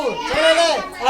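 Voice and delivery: समय लगला drawn out slowly, each syllable lengthened; slow समय लगला right down to show vowel length; a teacher stretching समय लगला to show time taken; slowly stretched. Shown as a demonstration. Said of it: "एक second".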